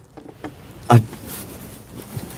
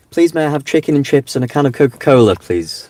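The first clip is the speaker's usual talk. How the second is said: quick, higher-pitched posh request; posh English accent; 5 semitones higher than usual. Shown as a demonstration. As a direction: order politely in an over-proper posh accent. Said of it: "That's the oblong of dreams poshness".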